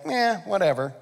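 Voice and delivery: mild verbal shrug; dismissive eh. Acted. Eve carelessly repeating God's promise, mildly dismissive. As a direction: brush it off without interest. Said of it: "The way she repeats it is like".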